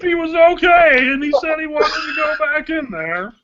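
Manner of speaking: put-on whiny kid coach voice; pinched voice. Continues Brady Hoke voice.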